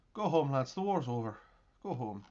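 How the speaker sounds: put-on Irish accent. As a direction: say it with a light Irish lilt. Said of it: "I don't know why I'm using, doing an Irish accent today".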